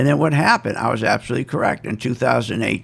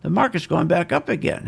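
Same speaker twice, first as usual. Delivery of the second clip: mock giddy; 8 semitones higher than usual. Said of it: "they're all giddy going".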